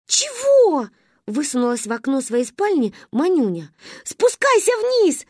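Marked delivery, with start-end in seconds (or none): 0.1-0.9 высокий громкий отклик; отозваться сверху; крик из окна. Acted. Кричит из окна. 4.0-5.3 громко и медленно, высоко; требовательно звать вниз; потребовали. Acted. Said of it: "потребовали мы".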